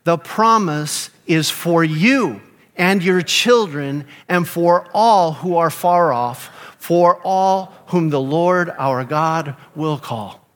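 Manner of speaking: congregation reading aloud together; many voices in unison. Real, not acted. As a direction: read it out together, slow. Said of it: "let's read it aloud together".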